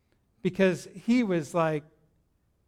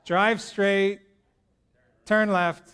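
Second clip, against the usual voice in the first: punchy command; slower than usual. Shown as a demonstration. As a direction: bark Drive straight, turn left like a race call. Mimicking nascar driving.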